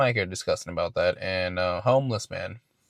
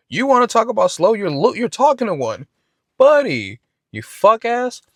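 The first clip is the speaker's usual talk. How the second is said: high, loud, furious outburst; a shrieking retold rant, much higher and louder; furious yell; 12 semitones higher, 8 dB louder than usual. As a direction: explode at him, voice cracking up high. Retold outburst at homeless man.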